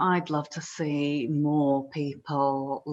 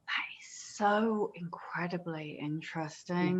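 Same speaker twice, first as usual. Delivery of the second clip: slow, breathy whisper, much softer; 14 dB quieter than usual. Real, not acted. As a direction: whisper it slowly, half to yourself. Listener reacts softly to guest.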